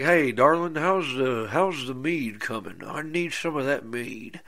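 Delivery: a hint of a husband calling for his supper; imitating the husband. Husband greets his wife asking for meat, lightly voiced. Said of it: "he's like".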